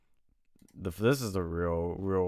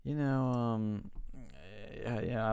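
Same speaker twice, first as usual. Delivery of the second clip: awkward surprise; 5 semitones higher, slower than usual. Retold or imitated. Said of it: "I was like".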